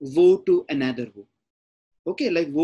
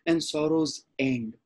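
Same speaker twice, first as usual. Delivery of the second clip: poem reading; slower than usual. Shown as a demonstration. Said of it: "He says".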